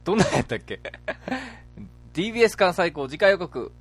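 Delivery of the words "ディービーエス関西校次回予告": hyped preview announcer read; anime next-episode announcer. Acted. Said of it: "ドラゴンボールの次回予告風で".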